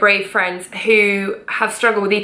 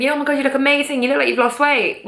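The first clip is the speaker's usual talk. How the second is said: higher-pitched, mock-gushing praise; gushing compliment; 5 semitones higher, faster than usual. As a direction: gush like an admiring friend.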